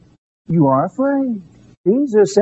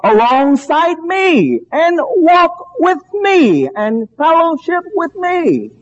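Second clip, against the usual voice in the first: slow, high-pitched pulpit appeal; emphatic preaching; 6 semitones higher, slower than usual. Real, not acted. Preacher inviting the congregation to walk alongside, emphatic preaching. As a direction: draw out each phrase, pitched high and emphatic.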